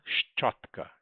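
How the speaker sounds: whispered. Shown as a demonstration. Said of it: "teacher repeats word twice".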